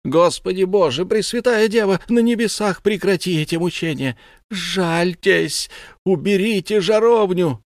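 high, loud anguished cry to God; screaming prayer. Acted. Mother screams to heaven as fire burns her son, anguished. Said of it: "и она закричала".

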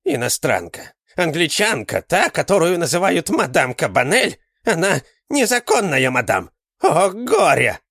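put-on old man crying woe; alarmed exclamation. A narrator's reading. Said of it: "воскликнул он". (испуганный возглас старика)

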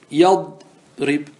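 "يضرب" drawn out slowly with an open ya, yadrib; slow teaching stretch of "يضرب", ya with fatha; open ya demo. Shown as a demonstration. Teacher to class, showing the open prefix, slow demo. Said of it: "انظر فتحنا الياء".

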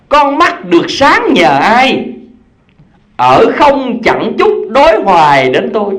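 slow, lilting verse reading over music; poem recitation. Acted. Preacher recites the nose's verse to listeners, slow and lilting. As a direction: chant the lines like a school recital.

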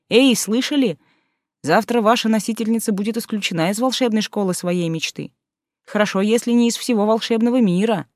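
a hint of a gleeful announcer; lightly voiced mocking inner voice.

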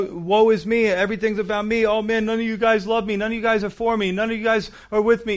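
a preacher hamming up a man feeling sorry for himself; whiny self-pity. Retold or imitated. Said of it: "You start getting paranoid".

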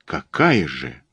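mildly surprised, low-pitched query; surprised question. Acted. Friend asking the detective about unknown evidence, surprised. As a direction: ask with a touch of surprise. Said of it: "удивлённо спросил я".

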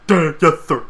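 mock dopey obedient soldier; a short hammed-up salute of a reply; Spike. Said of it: "I love how Spike's just like".

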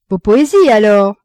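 acted lively retort; exclaimed retort. A narrator's reading. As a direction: toss back the guess as an exclamation. Merchant's teasing retort.

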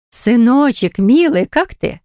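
high, drawn-out doting coo; tender mother. A narrator's reading. Mother cooing to her grown son on the phone, doting and slow.

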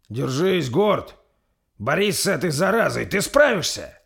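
urgent, high, loud cry of encouragement; high-pitched rallying yell; Торстейн shouting. Acted. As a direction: shout to keep a struggling friend fighting. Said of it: "закричал Торстейн".

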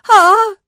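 very high, loud falling scream. A narrator's reading. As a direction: scream while tumbling down stairs. Commandant falls down stairs.

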